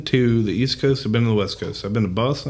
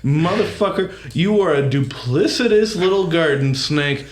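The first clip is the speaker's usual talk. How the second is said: higher-pitched, mock-indignant insult; hateful tirade; 6 semitones higher than usual. Southerner demonstrating hateful insults, mock tirade. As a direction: rip into him with playful venom. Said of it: "you could say the most hateful thing".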